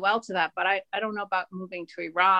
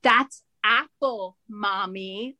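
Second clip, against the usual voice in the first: put-on kids' voice; much slower than usual. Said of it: "they turn around and go".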